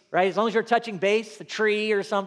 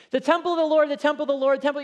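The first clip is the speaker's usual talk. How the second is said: higher, louder chant of the temple of the Lord; voicing the complacent people; 7 semitones higher, 4 dB louder, much faster than usual. Preacher mimicking worshippers who trust the temple. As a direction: echo the people's smug slogan. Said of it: "Hebrews repeated things for emphasis".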